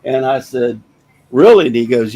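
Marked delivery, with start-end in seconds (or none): 1.3-1.7 higher, louder surprised "Really?"; retold disbelief, rising sharply. Hearing neighbor offers to pay.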